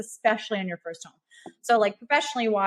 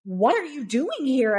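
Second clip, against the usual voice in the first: slow, higher, mildly indignant retelling; imitated upset seller; 4 semitones higher, 3 dB louder, slower than usual. Seller confronting agent at a scheduled showing, mock upset. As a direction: demand an explanation, mock affronted. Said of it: "she was super upset".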